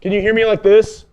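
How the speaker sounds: muffled inside a helmet; talking from inside a football helmet; inside a fishbowl. Real, not acted. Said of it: "You sound like a fishbowl".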